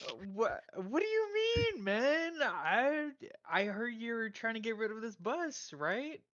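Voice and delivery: innocent Angus. Acted.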